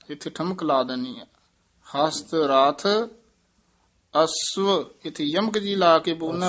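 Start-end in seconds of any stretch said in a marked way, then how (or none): 2.0-2.9 ਰਾਥ said softly, light aspiration; soft rath. Shown as a demonstration. Teacher shows how to say ਰਾਥ softly. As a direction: ease ਰਾਥ out gently. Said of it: "ਰਾਥ ਪੋਲਾ ਹੀ ਬੋਲਣਾ".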